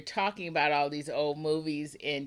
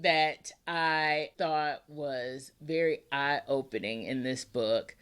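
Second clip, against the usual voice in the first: slow, lower and grave, half-joking; playfully serious, lower and slow; mock-serious lowered voice; 5 semitones lower, slower than usual. Shown as a demonstration. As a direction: drop the voice as if about to say something weighty. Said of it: "I lowered my voice like I was really getting serious there".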